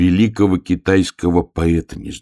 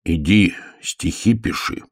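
slow, mildly stern order. Acted. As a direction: give the order slowly and strictly. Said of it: "строго сказал медвежонок". (строго, с расстановкой)

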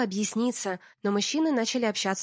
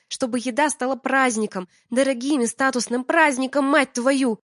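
higher, louder angry tirade; heated lecture; 4 semitones higher, 5 dB louder than usual. Acted. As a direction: hammer the point home. Алина отчитывает мужа.

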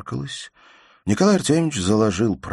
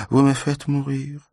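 a hint of a plaintive higher mother's voice; lightly voiced fretful mother; 8 semitones higher than usual. A narrator's reading. Mother pleads with her husband, lightly voiced and plaintive.

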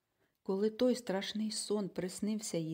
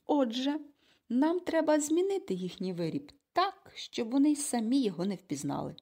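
higher and louder, eager; excited; 5 semitones higher, 5 dB louder than usual. A narrator's reading. Mother excitedly explains her plan to Konrad and Egon, excited. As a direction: lay out the plan with rising excitement. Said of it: "схвильовано похитала пальцем".

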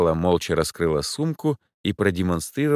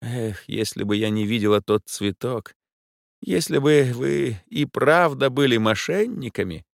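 high, wistful sigh of a voice; a rich lady regrets aloud; regretful lady; 6 semitones higher than usual. A narrator's reading. The client muses she wishes they were crooks.

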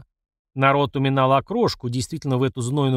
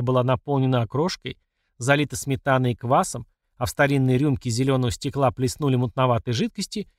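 plain reading voice

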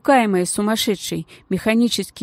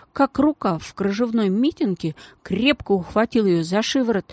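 ordinary delivery, nothing marked

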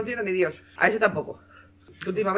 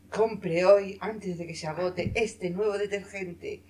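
hammy ad announcer voice; infomercial; much slower than usual. Pretend. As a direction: sell it like a TV ad, slow.

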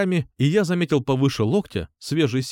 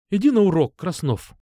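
sharp high exclamation; exclaiming; 6 semitones higher than usual. A narrator's reading. Upset teacher sending Krasnov back to class, sharp exclamation. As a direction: tell him off to send him away. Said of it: "воскликнула она".

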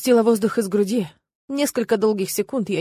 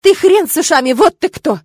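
loud, much higher outraged yell; furious shout; 9 semitones higher, 10 dB louder than usual. A narrator's reading. Lena yelling her father's curse at Tirk. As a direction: blurt the insult at full volume. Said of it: "выдала я ругательство".

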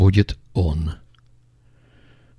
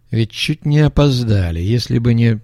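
lisping, hurried thug; slushy sh for s; 2 semitones higher than usual. Acted. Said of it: "Шепелявый продолжал". (шепелявый голос бандита)

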